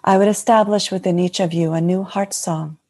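lightly voiced serene goddess speaking; a hint of a blessing divine mother; channeling Mary Magdalene. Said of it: "And the Magdalene would like to speak".

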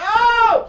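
loud, high-pitched "oh!"; hammed-up shocked cry; startled yell. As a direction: holler in comic alarm. Retold startled cry, pressed again.

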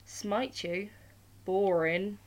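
loud mock-scornful shout on Boring. A narrator's reading. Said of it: "he shouted".

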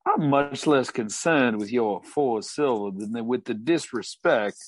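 a touch of Southern cowboy warning; a hint of a Southern cowboy accent; Southern drawl. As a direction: talk him down in a Southern drawl. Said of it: "Thornbuckle's accent".

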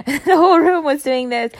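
amused laugh about the whole room. Real, not acted. Recalling the voice class, laughing out loud.

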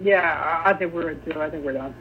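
hiccuping between words; hiccups. Real, not acted. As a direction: talk through hiccups. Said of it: "I can't stop hiccuping".

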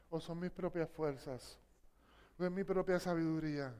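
soft, low and intimate; quiet searching questions. Real, not acted. Preacher to each listener, soft intimate questions. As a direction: ask softly, letting each question land.

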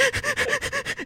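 high mock whimpering cry; mock toddler whine; imitated child's whimper. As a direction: whimper like a sad little kid. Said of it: "And he's like".

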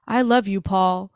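mock tender confession at everyday pitch; imitated de-escalation. Annie calming down after flipping out, mock tender. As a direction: let it settle into a simple declaration. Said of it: "how much she de-escalates".

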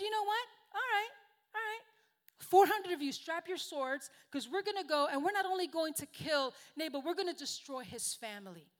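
rally four hundred men in a mock rage; preacher playing an enraged David; mock angry king. Angry David orders attack.

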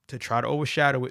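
words broken by a burp. Real, not acted. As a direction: say it while a burp comes up. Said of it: "Excuse me, I'm burping".

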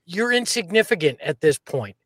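trash talk to the trolls; taunting the trolls with swagger; mocking send-off to the haters; attitude. Real, not acted. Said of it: "That's, that's attitude".

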